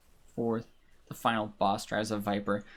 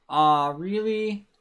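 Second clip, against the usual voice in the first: loud, high, drawn-out dismay; dismayed disbelief; 6 semitones higher, 6 dB louder, much slower than usual. Real, not acted. Player seeing the bad race standing, dismayed disbelief. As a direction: stretch it out and rise in disbelief. Learns how far back he fell.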